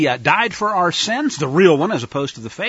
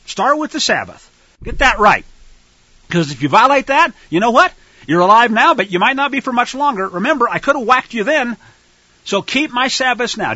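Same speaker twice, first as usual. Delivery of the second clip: God's warning; 4 semitones higher, 5 dB louder than usual. Acted. Voicing God warning the people.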